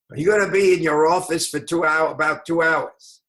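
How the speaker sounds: very rough voice, plain delivery. Retelling a phone call from an attorney: Mickey Rudin's rough voice. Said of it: "a man with the roughest voice I ever heard".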